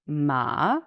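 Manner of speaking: Ma rising like a question; second tone ma. Shown as a demonstration. Teacher demonstrates the rising second tone. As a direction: lift Ma up as in "What?". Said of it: "rise like saying, "What?".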